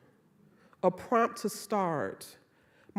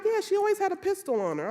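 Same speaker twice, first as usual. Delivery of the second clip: imitating mom; 12 semitones higher, 4 dB louder, faster than usual. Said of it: "She was like".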